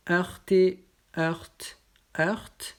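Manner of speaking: "heurte" said twice with open eu; word list drill. Shown as a demonstration. Teacher reading the eu word list to students. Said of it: "motif E U".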